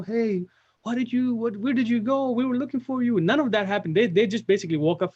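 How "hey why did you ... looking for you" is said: high, far imagined worried parent. Pretend. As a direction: voice the hoped-for worried welcome. Imagined parents' warm welcome.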